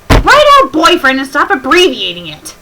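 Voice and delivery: loud, high, fed-up scolding; loud exasperated rant; exasperated outburst. Real, not acted. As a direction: yell it at the author in disbelief. Exasperated rant at bad fanfic.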